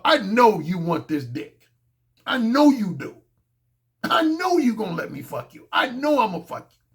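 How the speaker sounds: cocksure, emphatic certainty; confident swagger; very cocky. Acted. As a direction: say it as a foregone conclusion. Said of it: "is a very cocky attitude of".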